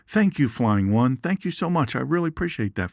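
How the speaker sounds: high, lightly voiced snake character; voicing the snake. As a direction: play the snake as a grateful showman. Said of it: "So he thought".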